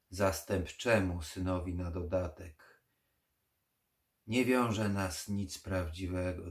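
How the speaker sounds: slow, weary vampire resentment; tired and bitter, giving up; bitter old vampire. Acted.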